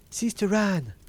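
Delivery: high-pitched call to a sister. A narrator's reading. Wife calling her sister for help, high urgent call. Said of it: "she called out to her sister".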